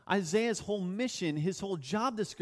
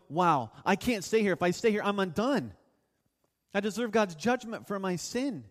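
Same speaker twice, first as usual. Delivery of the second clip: louder, urgent acted confession; alarmed sinner; 4 dB louder than usual. Preacher voicing Isaiah before God, louder and urgent. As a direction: preach it as a mildly panicked realisation. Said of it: "And he's going".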